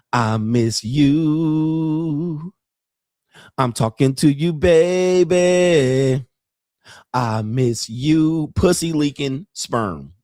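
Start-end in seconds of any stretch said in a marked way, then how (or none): 0.1-8.5 mock woman's voice, acted. Acting out a woman texting a man from another man's bed: imitating a woman texting. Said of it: "talking about".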